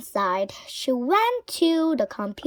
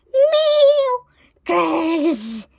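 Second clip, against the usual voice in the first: high whispered cat snarl into a growl; sneering cat; 6 semitones higher, 5 dB louder than usual. A narrator's reading. Wilbur at the computer mouse, sneering growl. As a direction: hiss and growl like an angry cat. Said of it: "he sneered".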